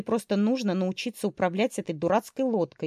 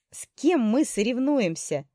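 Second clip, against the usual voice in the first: higher, slower call over the wind; shouting over wind; 5 semitones higher than usual. Acted. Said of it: "крикнула она, перекрикивая ветер".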